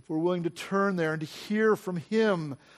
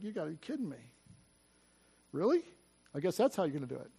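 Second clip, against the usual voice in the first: stunned disbelief; 4 semitones lower, 11 dB quieter, much faster than usual. Retold or imitated. Retold stunned reaction to gift.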